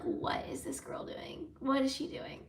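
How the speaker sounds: whispered, imitating a puzzled hostess. Narrator imitates the hostess wondering, in a whisper. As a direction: hush it like a baffled onlooker. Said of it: "I think the hostess was like".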